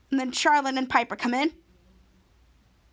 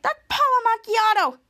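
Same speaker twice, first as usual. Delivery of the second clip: higher, louder thrilled recognition; starstruck squeal; 9 semitones higher, 5 dB louder than usual. Retold or imitated. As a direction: gush over a celebrity fan leader. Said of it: "Piper's like".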